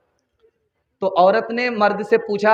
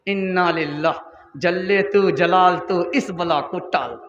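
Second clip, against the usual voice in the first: mock lament; 5 semitones lower, 4 dB quieter, slower than usual. Daughter laments about mother-in-law.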